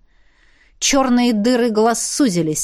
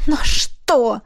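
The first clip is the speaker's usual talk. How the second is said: moaning. A narrator's reading. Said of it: "простонал он".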